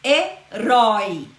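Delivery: "herói" slowly, he / RÓI, last syllable strong; slow teacherly "herói", weight on the ending; stress on final syllable. Shown as a demonstration. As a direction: split "herói" and land firmly on rói. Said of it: "Herói é uma palavra oxítona".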